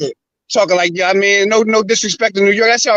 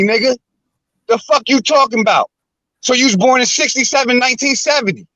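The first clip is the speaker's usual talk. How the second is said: heated ranting, pitched higher; berating the streamer about his grandparents' ages; angry rant; 5 semitones higher than usual. Real, not acted. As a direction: tear into him as a liar. Ranting at the streamer, calling him liar.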